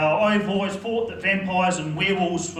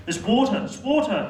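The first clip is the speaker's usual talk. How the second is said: mock-desperate, higher desert-movie cry; desperate movie gasp; 4 semitones higher than usual. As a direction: spot water after crawling through desert. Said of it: "when you're really struggling".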